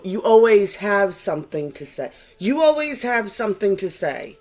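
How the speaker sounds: mock reproach, repeated for emphasis; passive-aggressive. Quoting a critic's familiar jab, passive-aggressive. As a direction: imitate a nagging critic's pointed complaint. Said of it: "a lot of passive-aggressive things".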